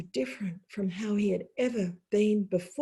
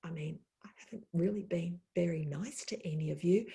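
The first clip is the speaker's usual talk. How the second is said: small, ashamed giant; 5 semitones lower, 11 dB quieter than usual. Acted. Humbled giant, even smaller voice.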